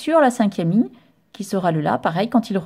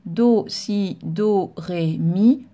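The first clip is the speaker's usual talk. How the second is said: quick, fluent note names in a row; fast note reading; 2 semitones lower, much slower than usual. Shown as a demonstration. Teacher reads the notes quickly to the pupil, fluent and fast. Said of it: "Là, on peut lire donc rapidement".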